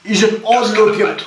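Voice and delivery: mock British accent, played for laughs; hammed-up British accent. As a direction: imitate a British bloke passing comment. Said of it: "British people be like".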